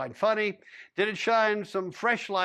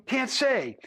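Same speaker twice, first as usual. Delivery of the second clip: can't say thrown back, higher and pointed; quoting back mockingly; 7 semitones higher than usual. A narrator's reading. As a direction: mimic the cowboy's can't say with a jab. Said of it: "to quote you".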